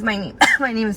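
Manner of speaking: coughing mid-sentence; choking on a cough while talking. Real, not acted. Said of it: "I'm choking".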